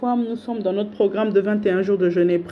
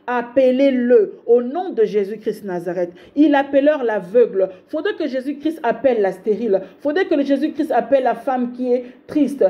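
higher, fervent preaching cadence; preaching at full force; 3 semitones higher than usual. Acted. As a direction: lift the crowd with each repeated line. Prêche sur les cris. (prédication enflammée, voix plus haute)

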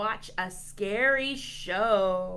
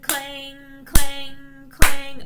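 loud ringing clangs, pitched up; clanging noise; 5 semitones higher, 16 dB louder, much slower than usual. Pretend. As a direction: imitate metal banging on a cup. Imitating a clanging cup.

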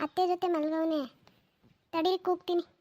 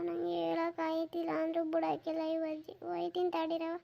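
softer sulky mutter; grumbling under breath; 6 dB quieter than usual. Acted. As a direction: grumble to yourself as you go. Boy grumbles getting up.

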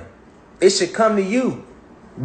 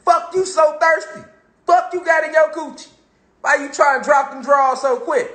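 incredulous; 6 semitones higher than usual. Retold or imitated. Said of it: "it's like".

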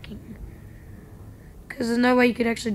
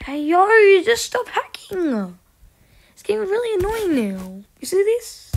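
annoyed yelling; 7 semitones higher, 5 dB louder than usual. Real, not acted. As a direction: shout at the hacker, fed up. Yelling at a hacker.

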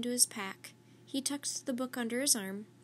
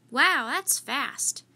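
louder, slow, drawn-out amazement; impressed wow; 3 semitones higher, 9 dB louder, much slower than usual. Acted. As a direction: stretch it out, genuinely wowed. Amazed at emu speed.

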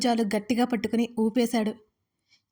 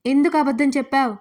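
louder, pressing repeat with ఎందుకు hit hard; insistent repeat; 3 semitones higher, 5 dB louder than usual. Acted. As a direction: demand again with ఎందుకు punched, falling at the end. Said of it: "మళ్ళీ రెట్టించి అడిగాడు".

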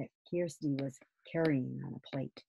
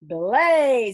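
higher, louder nautical order; sharp command; 7 semitones higher, 10 dB louder than usual. Acted. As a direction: stop them with a ship's command. Father calls a halt.

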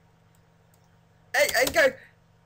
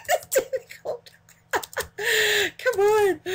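squeaky, much higher laughing words; 11 semitones higher, much slower than usual. Real, not acted. Gamer laughing at his own failure. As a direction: giggle through it helplessly.

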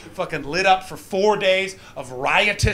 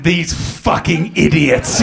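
scornful locals; 6 dB louder, slower than usual. Retold or imitated. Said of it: "they're just like".

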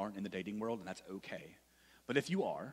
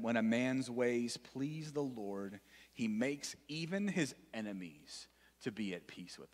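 scripture reading. Shown as a demonstration. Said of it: "Proverbs sixteen seven".

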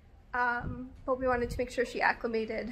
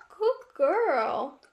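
louder praise to a puppy; praising the puppy; 3 semitones higher, 7 dB louder than usual. Real, not acted. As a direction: praise your dog mid-recording.

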